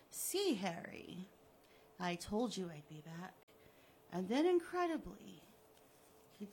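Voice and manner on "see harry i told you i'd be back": gloating villain. Acted. Killer taunting the buried Harry, smug and mocking. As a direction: taunt him like a cat with a mouse.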